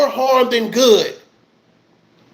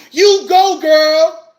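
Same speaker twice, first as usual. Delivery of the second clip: higher, louder hyped cheer; mock cheering fan; 3 semitones higher, 4 dB louder, much slower than usual. Quoting cheering chat fans.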